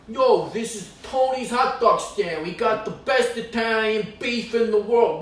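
loud, high, slow street hawker; a loud, slow mock ad for Tony's hot dogs; hot dog stand pitch. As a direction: sell it like a corner stand sign.

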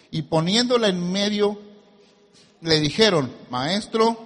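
deliberate pulpit reading in separate phrases; scripture reading. Acted. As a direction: read it out, pausing after each phrase. Reads scripture to congregation.

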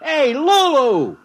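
calling out. Acted. Calling up to the control center.

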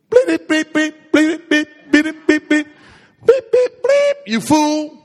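comic bleeps standing in for swearing; playful bleeped insult; mock cursing.

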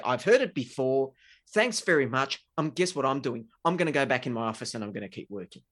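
loud, curt brush-off; mild sarcastic kiss-off to the accusing partner; dismissive withdrawal. Retold or imitated. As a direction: shut the partner down and walk away. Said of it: "that's the withdrawal side".

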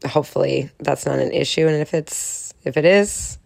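stuffy nose from a cold; nasal from a cold. Real, not acted. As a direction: talk through a blocked nose. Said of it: "so I'm super nasally".

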